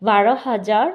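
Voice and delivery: slow and clear. Shown as a demonstration. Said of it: "একসাথে দুইটা সংখ্যা উচ্চারণ করে বলতে হবে".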